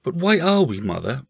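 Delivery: put-on curious little boy, high voice; young boy. A narrator's reading. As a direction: lift the voice into a small boy's. Boy Paul questions his mother.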